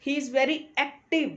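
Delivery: slow example sentence with active stressed; word stress on active. Shown as a demonstration. Teacher demonstrating word stress in a sentence, active emphasized. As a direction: say He is very active slowly, leaning on active. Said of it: "एक्टिव पे मैंने stress पे किया".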